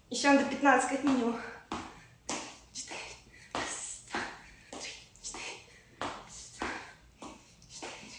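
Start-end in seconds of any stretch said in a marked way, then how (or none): 2.7-8.1 quiet count fading into a whisper; counting workout reps. Real, not acted. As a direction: count reps under your breath, trailing off.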